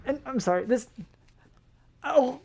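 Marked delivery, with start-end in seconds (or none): 2.0-2.4 disgusted gasp. Acted. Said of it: "I took off my mask".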